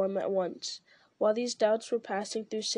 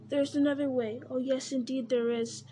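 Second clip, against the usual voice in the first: Gollum coaxing; 2 semitones higher than usual. Acted. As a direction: coax and tempt, eager. Gollum offering another way.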